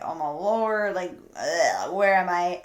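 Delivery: low, groggy mock groan; retold hungover. Recalling stumbling to the bathroom hungover, groggy grumble. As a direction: play a mild hangover, just coming to. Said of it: "I'm hungover".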